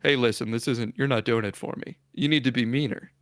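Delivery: lightly voiced pig boy, low and hushed. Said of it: "he stops midway and he goes".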